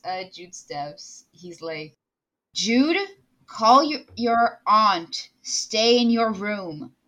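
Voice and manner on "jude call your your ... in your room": a hint of firm dad; louder, measured instruction to his child. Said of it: "Like the dad voice?".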